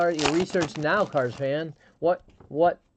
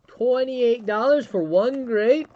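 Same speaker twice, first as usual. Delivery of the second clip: mock incredulous question, higher, louder and slow; incredulous upset; 8 semitones higher, 6 dB louder, slower than usual. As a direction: act out a husband stunned by the price. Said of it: "visibly get upset or anything".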